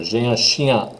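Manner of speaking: j'ai un chien barely touching the N; nasal chien with hardly any N; teacher demo; French pronunciation. Shown as a demonstration. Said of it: "I'm barely saying the N".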